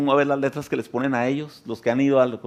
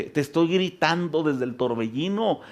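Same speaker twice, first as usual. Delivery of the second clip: high, loud preaching cry as God; God pleading from the storm, loud and high; God shouting; 11 semitones higher, 7 dB louder than usual. Acted. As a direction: call out as God from the whirlwind. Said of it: "y quizá Dios te dice".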